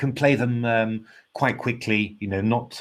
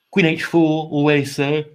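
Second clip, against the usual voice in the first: yawning; 5 semitones higher, 6 dB louder than usual. Real, not acted. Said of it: "I'm yawning a lot today".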